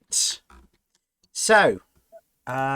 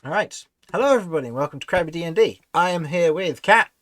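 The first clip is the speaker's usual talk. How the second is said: excited; 5 semitones higher, 8 dB louder, faster than usual. Real, not acted. Show host opening, hyped intro.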